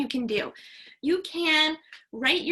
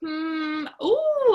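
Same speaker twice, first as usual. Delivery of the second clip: a pleased little gasp of discovery; excited teacher ooh; 3 semitones higher, 4 dB louder than usual. Real, not acted. Teacher reacts to answers.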